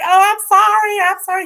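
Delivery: high, flustered sorry; mock apology. The speaker to two bandmates, high flustered apology. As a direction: play the speaker caught out.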